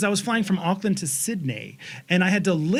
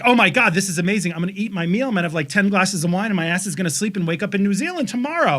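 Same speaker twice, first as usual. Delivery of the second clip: gushing; faster than usual. Retold or imitated. Her gushing reply.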